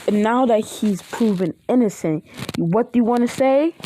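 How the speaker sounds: angry. Acted. Friend scolds classmates for calling him traitor.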